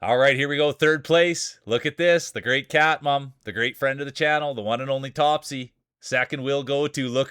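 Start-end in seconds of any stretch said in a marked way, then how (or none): 0.0-4.1 excited announcer. Real, not acted. Announcing the podium results.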